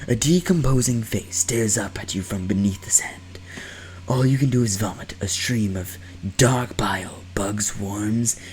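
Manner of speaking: hushed horror story whisper; whispering narration. Acted.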